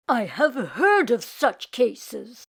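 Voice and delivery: put-on slow, grave old rabbi; measured rabbi tone. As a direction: speak like a wise rabbi. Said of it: "he said".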